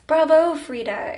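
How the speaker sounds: high, loud, drawn-out cheer; happy exclamation. A narrator's reading. Host congratulating his guest, happy exclamation. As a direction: applaud with delighted, slow emphasis. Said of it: "exclaimed Marcellus happily".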